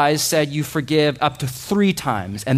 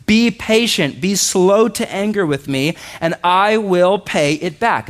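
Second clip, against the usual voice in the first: begging servant; 4 semitones higher than usual. Acted. Servant on his knees begging, raised pleading voice. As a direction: plead for more time.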